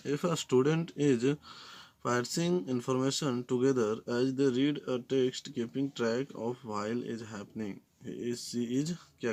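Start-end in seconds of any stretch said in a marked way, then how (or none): 0.1-7.8 slow, deliberate reading of the English question; slow dictation reading. Acted. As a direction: read the question word by word, drawn out. Reads exam question aloud slowly.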